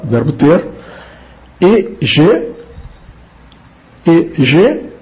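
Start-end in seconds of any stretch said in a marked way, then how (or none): 1.6-4.9 ai-je with French j and open e. Shown as a demonstration. Teacher showing the hard ai-je sound for Portuguese speakers. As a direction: model ai-je carefully. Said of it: "observe a pronúncia do o G".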